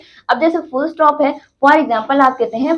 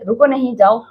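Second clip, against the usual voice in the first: "रुको नहीं" as one unit, then "जाओ" apart; pause after नहीं. Shown as a demonstration. Teacher showing the moved comma, break after नहीं. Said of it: "अगर comma यहाँ पर आ गया".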